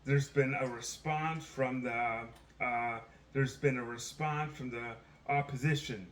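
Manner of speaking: lightly acted halting quote; Joe Biden. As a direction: restart the phrase, groping for the word. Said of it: "I'm quoting Joe Biden here".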